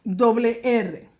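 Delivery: deliberate teacher stress on "doble R"; slow clear doble R. Shown as a demonstration. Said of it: "dígrafo".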